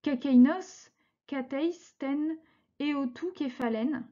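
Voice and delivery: put-on careful, measured reading of an old text; reading Ancient Greek aloud. Teacher reads Aesop's Greek original to students, measured.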